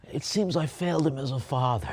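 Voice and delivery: a hint of Brando's mumbling father voice; a light Brando take on a sorry father; Marlon Brando. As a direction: lightly play Brando, regretful. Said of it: "Marlon Brando said".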